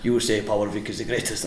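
lightly imitated Nigerian accent; put-on Nigerian accent. Camera crew telling the wrestler what to say, in a put-on Nigerian accent. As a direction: prompt him in a mock-Nigerian accent. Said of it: "What a racist accent".

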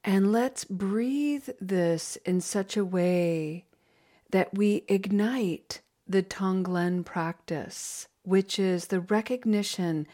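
gentle slowed meditation voice; guided meditation. Acted. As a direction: ease the group into breathing together. Leads a breathing meditation.

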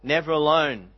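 measured line-by-line recitation, pausing after each phrase; spoken hymn, each line settling gently downward; hymn verse recital. Real, not acted. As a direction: recite it like a poem, unhurried and sincere.

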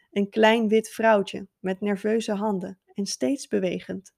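measured poetry reading; poem recitation. Shown as a demonstration. Teacher demonstrating a poem recitation for oral-exam pupils, recited. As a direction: recite it line by line as verse. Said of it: "begin ik met een voordragen van het gedicht".

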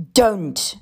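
sudden pained protest; short, urgent cry; distressed cry. A narrator's reading. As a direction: cut in with an anguished plea. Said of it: "I cried".

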